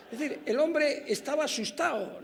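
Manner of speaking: amused at the memory, laugh it out; real laughter while explaining the witness's fright. Real, not acted.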